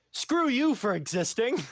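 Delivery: high, drawn-out mock indignation; mock outburst. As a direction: throw it out as a high-pitched joke tirade. Acts out imagined outburst between countrymen.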